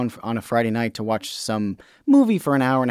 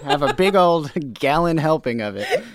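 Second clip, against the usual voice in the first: loud carnival barker; 4 semitones higher, 3 dB louder than usual. Pretend. Barker routine, laughing.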